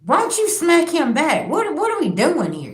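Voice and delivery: urging her to hit back; retold shocked yell; young self yelling. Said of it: "I'm like".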